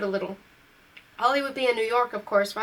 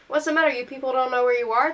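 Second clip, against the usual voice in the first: put-on tough teen sneer; 2 semitones higher, 4 dB louder than usual. Teen thug confronting customers.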